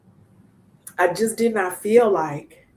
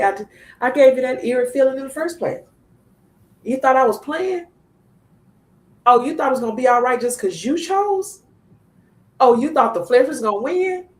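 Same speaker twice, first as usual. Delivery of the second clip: raised, preaching voice, speaking for God; 6 semitones higher, 4 dB louder than usual. Retold or imitated. Sharing her story with the group, she speaks God's rebuke in a raised preaching voice. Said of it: "I'm in a season where God says".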